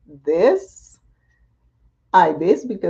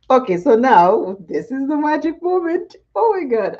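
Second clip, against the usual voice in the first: higher, louder excitement; excited; 7 semitones higher, 4 dB louder than usual. Real, not acted. Showing viewers the magic moment, excited. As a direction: build up the big reveal.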